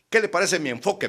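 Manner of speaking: self-satisfied question, high and loud; air of grandeur. Retold or imitated. Opponent asking what he thinks of his approach, pompous. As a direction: ask it grandly, fishing for admiration. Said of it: "ya con aire de grandeza".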